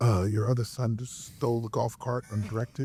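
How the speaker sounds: quiet, hushed, half-whispered stage whisper. Retelling what people quietly told him at a banquet: imitating a quiet half-whisper. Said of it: "quietly whispered".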